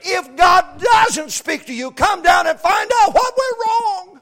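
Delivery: shouted, high-pitched preacher's cry; fiery revival preaching; full-force preaching. Acted. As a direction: bring it up to a roaring pulpit shout.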